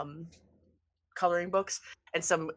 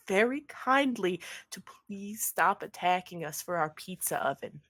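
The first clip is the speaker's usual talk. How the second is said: lightly voiced pleading pizza maker; 2 semitones higher than usual. Pizza maker begs Ernest to call off attacks, pleading. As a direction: beg a favor, stretching out the please.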